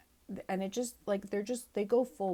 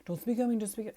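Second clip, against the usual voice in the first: louder, lightly hammed-up bro warning; a hint of a tough-guy bro imitation; mock street bro accent; 3 semitones higher, 4 dB louder than usual. Host mocking Sam M's repeated catchphrase, mild mock accent. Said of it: "He says".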